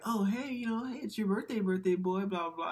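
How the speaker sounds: high, singsong mock mom; lifted, cutesy parent voice; birthday mom. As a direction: imitate a mom gushing at her birthday boy.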